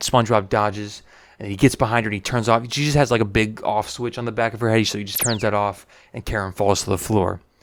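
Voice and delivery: ordinary talk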